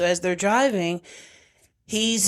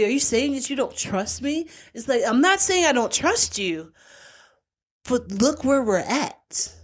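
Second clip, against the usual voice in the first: mock couple bicker; 5 semitones higher than usual.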